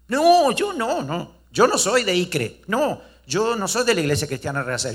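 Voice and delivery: high, flustered protest, backing away from the accusation; cornered man insisting he's not one of them; panicked denial. Acted. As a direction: deny it fast, caught out.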